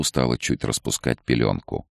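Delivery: usual speaking voice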